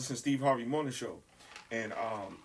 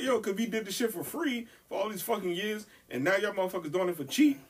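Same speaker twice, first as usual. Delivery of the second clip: worked-up retold rant, pitched up; fussing at the radio; 5 semitones higher than usual. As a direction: argue back at a radio caller, indignant. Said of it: "I was fussing at the radio".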